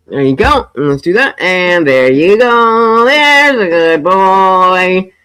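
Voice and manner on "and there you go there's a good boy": praising the dog. Real, not acted.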